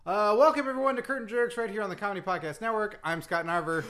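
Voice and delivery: upbeat podcast host welcome; show intro. Pretend. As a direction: open the show with an energetic greeting. Host's show intro on request.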